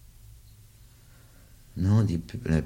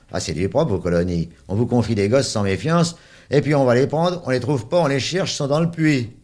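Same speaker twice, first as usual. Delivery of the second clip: angry; 6 semitones higher than usual. Acted. Soaked man scolds the matron.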